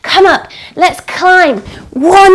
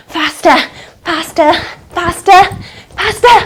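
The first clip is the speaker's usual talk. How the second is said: climbing higher each time; building urgency; 3 semitones higher than usual. Shown as a demonstration. Teacher urging kids over the wall, rising excitement. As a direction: push them faster and faster. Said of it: "You've gotta be quick".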